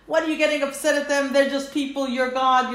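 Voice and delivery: teasing God out of his anger; dismissive tease. Retold or imitated. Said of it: "Like I'm saying to Hashem".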